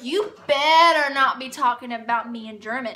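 loud retold warning, annoyed; mad. Warning him not to talk about her, mad. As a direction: warn him off, acting out anger. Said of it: "It made me so mad".

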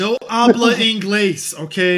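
loud, slow, high mock put-down; slow mock snooty. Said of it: "nineties white woman".

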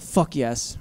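low, quiet stern kid imitation; super stern. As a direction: drop low and mean it sternly. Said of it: "She got super stern".

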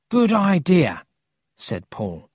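high, loud, eager agreement; enthusiastic. Acted. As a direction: jump at the plan. Paul welcomes Emil's plan.

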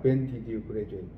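very slow, clear English sentence for repeating; slow model reading. Shown as a demonstration. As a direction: read it slowly so students can follow. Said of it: "model reading". (또박또박 천천히 읽는 예문)

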